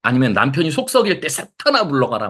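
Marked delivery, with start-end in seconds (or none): 1.3-2.3 mock rebuke. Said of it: "막 이렇게 해야 돼요?".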